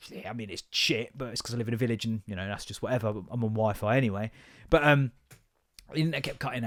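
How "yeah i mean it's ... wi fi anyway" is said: mumbled reply. Retold or imitated. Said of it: "I'm like".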